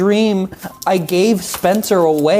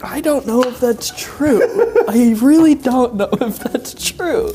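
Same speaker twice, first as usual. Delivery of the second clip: laughing; 6 semitones higher than usual. Real, not acted. Laughs at the claim.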